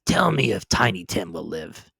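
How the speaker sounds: put-on old man's voice asking with new concern; earnest plea. A narrator's reading. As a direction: ask the ghost anxiously, earnestly. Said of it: "with an interest he had never felt before".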